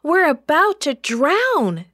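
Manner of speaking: high, loud frantic plea; panicked yelling. A narrator's reading. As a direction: yell for help as the boat sinks. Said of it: "they yelled".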